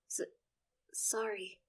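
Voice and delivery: stammered, whispered sorry; mumbled apology. Acted. Son apologising to his sister, mumbled. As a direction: let the sorry barely come out. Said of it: "I mumble".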